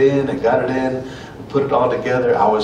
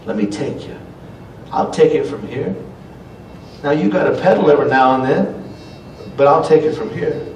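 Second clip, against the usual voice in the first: God speaking tenderly; 2 semitones higher than usual. Pretend. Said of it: "God knows and says".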